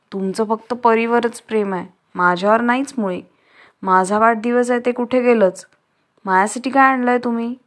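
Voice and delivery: lightly acted sulky boy near tears; mildly voiced crying. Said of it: "Hari लागला रडायला". (हलकंसं रडवेलं तक्रार करणं)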